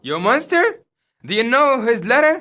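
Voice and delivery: Albany confronting Goneril; angry husband. Acted. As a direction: demand an answer.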